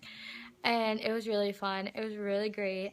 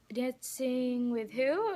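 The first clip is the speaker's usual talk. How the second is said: retold puzzled question; 3 semitones higher, much slower than usual.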